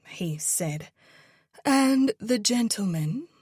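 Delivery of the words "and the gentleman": playfully put-on Victorian accent, higher and louder; mock Victorian grandeur, ordering for him; fake Victorian accent. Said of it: "in a fake Victorian accent".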